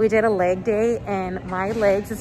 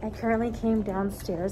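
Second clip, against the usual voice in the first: hushed, much quieter speaking; 6 dB quieter than usual. Speaking to viewers with offices all around, talking quietly. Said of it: "I'm talking quiet because there's a lot of offices".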